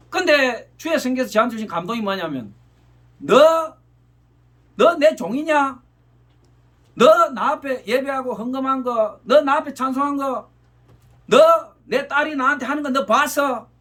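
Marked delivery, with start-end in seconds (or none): 3.2-13.7 slow, pointed rebuke hitting each 너; the Lord's stern reproach, slow and pressing. Retold or imitated. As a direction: scold like a disappointed master calling out a servant. God rebuking the preacher.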